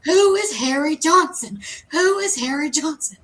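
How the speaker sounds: yelling. Retold or imitated. Demanding her friends tell her who Harry Johnson is, mock yell. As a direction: call the question out half-joking, as if yelling. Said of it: "And I yell it".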